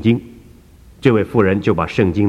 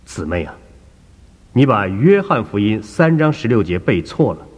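calm and serious. Acted. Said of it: "很安静严肃地向他说".

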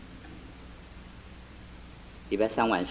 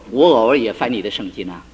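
laughing; 7 dB louder than usual. Retold or imitated. Husband teasing wife.

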